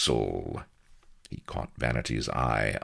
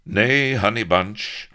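slow, raised, fond reassurance; soothing; 8 semitones higher, 7 dB louder, slower than usual. A narrator's reading. Avery gathers Vanity to him, soothing gallantly. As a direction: comfort her with swagger. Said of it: "Avery scooped her soothingly".

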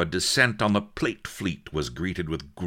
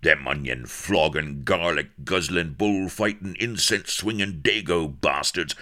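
loud, high raging pirate tirade; furious yelling; 6 semitones higher, 5 dB louder than usual. A narrator's reading. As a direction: scream it out in fury. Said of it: "and yelled".

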